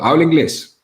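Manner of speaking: retold courteous opener, lifting the pitch; cordial question. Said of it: "como por ser cordial".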